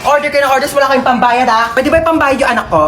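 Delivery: ranting mother. Acted. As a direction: scold like an exasperated mom. Mother ranting about orders.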